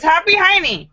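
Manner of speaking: put-on high, loud little girl. Girl answering the principal, high and loud. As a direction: chirp it out like a small child.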